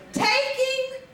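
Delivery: mock solemn reading. Reading the warning sticker aloud.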